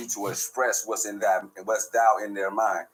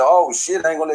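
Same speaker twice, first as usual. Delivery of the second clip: higher, louder startled oh shit; shocked; 6 semitones higher, 8 dB louder than usual. Retold or imitated. Retelling God's warning, he blurts in shock. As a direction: blurt it out in alarm.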